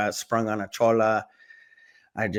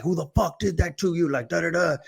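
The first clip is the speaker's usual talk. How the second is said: higher-pitched mock outrage; pissed cousins; 6 semitones higher than usual. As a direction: imitate protective cousins demanding a culprit. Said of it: "my cousins being all pissed".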